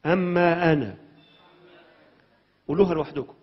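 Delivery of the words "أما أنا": أما أنا said out loud and strong; loud together. Shown as a demonstration. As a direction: lead the church saying أما أنا loudly. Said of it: "قولوا بصوت عالي". (بصوت عالٍ)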